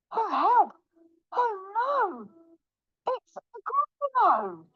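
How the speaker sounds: high, wailing panic without shouting; hammed-up storybook terror; frightened cry. Mouse terrified by real Gruffalo.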